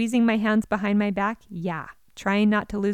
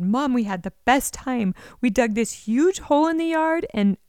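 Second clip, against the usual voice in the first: put-on excited kid; 4 semitones higher, 3 dB louder than usual. Child excitedly reports digging hole.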